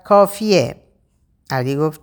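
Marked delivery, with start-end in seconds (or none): 0.0-0.8 a sharp, higher burst cutting them off; sudden shout. Acted. Raha abruptly shouting at the joking friends to stop. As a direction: snap out one word to stop the banter. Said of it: "رها یهو داد زد".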